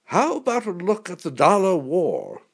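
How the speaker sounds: mildly shouted request to the pilot. A narrator's reading. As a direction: call it out over the intercom. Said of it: "I shouted down the intercom".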